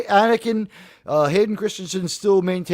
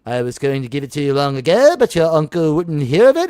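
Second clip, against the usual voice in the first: low put-on film mentor voice; old mentor; 5 semitones lower than usual. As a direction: imitate an aged Jedi recalling the past. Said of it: "And that fits with".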